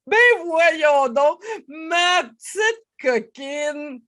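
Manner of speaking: hammed-up affectionate reproach; comic fond scolding. Shown as a demonstration. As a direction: exclaim at yourself with amusement. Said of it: "changer l'intonation".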